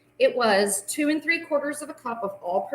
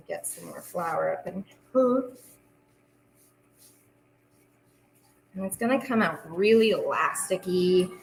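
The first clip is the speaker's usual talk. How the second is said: kneading dough. Real, not acted. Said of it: "while I knead".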